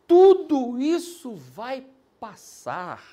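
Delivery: loud, very slow reassurance; slow forceful promise. Real, not acted. Pastor promising the church their trouble will pass, slow and loud. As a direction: drive each word home to comfort them.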